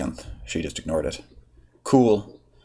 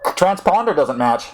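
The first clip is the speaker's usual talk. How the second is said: mildly peaked drawl; 5 semitones higher than usual. Acted. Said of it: "his normal drawl mildly peaked".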